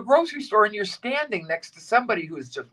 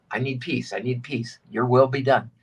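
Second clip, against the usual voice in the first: quiet prayer; 7 semitones lower than usual. Shown as a demonstration.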